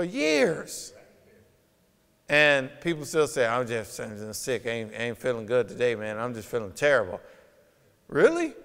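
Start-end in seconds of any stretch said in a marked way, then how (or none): 3.5-7.2 mock sick whine. Imitating sick person whining. 8.1-8.5 incredulous. Real, not acted. Incredulous reply.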